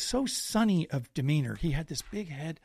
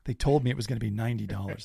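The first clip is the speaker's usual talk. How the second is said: dread; 6 semitones lower than usual. Retold or imitated. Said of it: "And I'm like".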